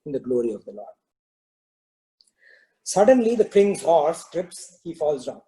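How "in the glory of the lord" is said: calm, lower-pitched minister. Acted. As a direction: say it calmly, unruffled by the anger. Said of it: "still is calm and he says".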